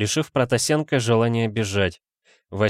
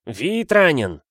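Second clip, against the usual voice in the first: mild crowd shout; 6 semitones higher, 3 dB louder, slower than usual. A narrator's reading. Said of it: "орали в толпе".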